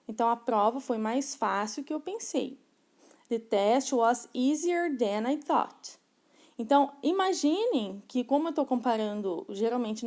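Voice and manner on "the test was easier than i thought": very slow, deliberate English for learners; slow model sentence. Shown as a demonstration. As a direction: lay each word out like a teacher modeling. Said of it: "no exemplo tem aí". (frase em inglês bem lenta e didática)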